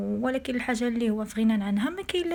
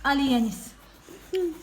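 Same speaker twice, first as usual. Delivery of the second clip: calling out; 6 semitones higher than usual. Real, not acted. Mother calls son to start.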